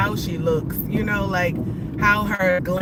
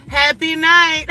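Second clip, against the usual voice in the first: quoted man; 7 semitones higher, 7 dB louder than usual. Retold or imitated. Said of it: "He said".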